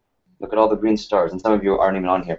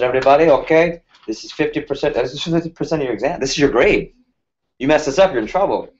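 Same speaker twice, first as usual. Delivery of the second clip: put-on Indian accent; 6 semitones higher than usual. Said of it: "he had this Indian accent".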